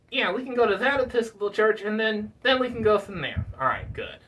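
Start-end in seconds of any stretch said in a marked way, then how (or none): 3.6-4.2 winded, breathy and low; tired out from talking; out of breath. Real, not acted. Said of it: "I'm out of breath".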